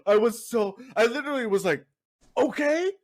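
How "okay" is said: high, louder questioning okay; awkward okay. Retold or imitated. Shopper to screaming stranger, awkward retreat. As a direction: say it thrown, rising at the end.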